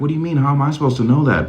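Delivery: 1 doubtful partner. Retold or imitated. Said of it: "And if they're like".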